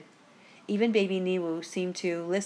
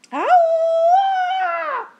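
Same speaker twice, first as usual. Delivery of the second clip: piercing, drawn-out high ghost scream; ghostly shriek; 10 dB louder than usual. A narrator's reading. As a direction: wail at full volume like a ghost. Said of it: "his version of the ghostly shriek".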